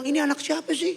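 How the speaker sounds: high-pitched comic exasperation; squeaky, flustered dad voice; exasperated disowning. Acted. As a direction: disown the kid in mock despair. Exasperated dad disowning screaming child.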